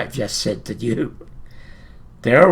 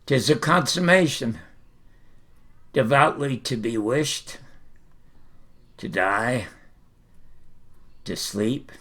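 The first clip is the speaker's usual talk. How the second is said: much softer and lower, fading away; soliloquy sinking to a hush; 4 semitones lower, 8 dB quieter than usual. Shown as a demonstration. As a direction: let the words drift toward sleep. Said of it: "And here it is".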